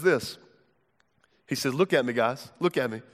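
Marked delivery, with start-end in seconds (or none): 1.7-3.0 lower, quieter and intent, pulling the disciples' focus; a hushed, earnest Jesus. Acted. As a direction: draw them in low and close, like a teacher who needs every eye on him. Jesus voiced calling his disciples.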